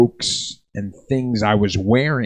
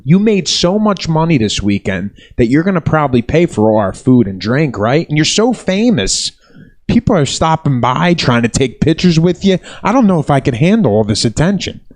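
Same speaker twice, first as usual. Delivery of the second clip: sarcastic flattery; 2 semitones higher than usual. Retold or imitated. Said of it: "It's bullshit".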